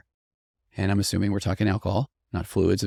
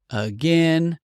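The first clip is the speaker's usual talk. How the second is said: put-on child voice; 8 semitones higher, 4 dB louder than usual. Child's line in play.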